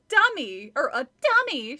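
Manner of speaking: loud shrieked word dummy; a girl shrieking at a dummy. A narrator's reading. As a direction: shriek it out in disgust. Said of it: "she shrieked".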